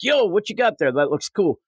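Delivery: a hint of a street tough; gang member. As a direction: play a curious tough.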